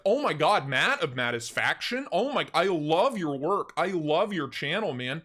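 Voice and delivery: loud, gushing fan shout; yelling back. Retold or imitated. Streamer yelling fan praise back at his tall friend. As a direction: bellow your love for his work. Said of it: "I would yell it back at him".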